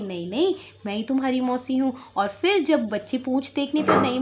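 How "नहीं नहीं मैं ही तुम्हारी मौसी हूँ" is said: softly sweet. Acted. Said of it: "बहुत softly उन्हें बोल रही है".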